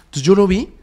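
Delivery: ordinary talk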